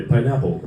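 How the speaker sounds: "Pineapple" with the weight on the wrong vowel; wrong emphasis. Shown as a demonstration. Son shows audience how dad said it, misstressed "Pineapple". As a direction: demonstrate dad's odd emphasis on "Pineapple".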